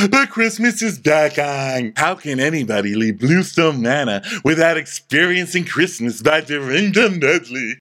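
big, swooping hostess voice; Dorinda. Acted. Hostess declaring Christmas back on, grandly drawn out. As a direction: announce it with slow, grand swoops. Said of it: "and Dorinda's like".

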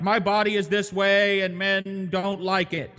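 high, slow whiny complaint; mocking lament. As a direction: whine it like a lament. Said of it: "this seems like a lament for".

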